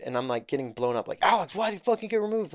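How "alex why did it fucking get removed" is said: mock angry holder.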